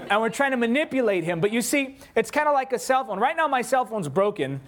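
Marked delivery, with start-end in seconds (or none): none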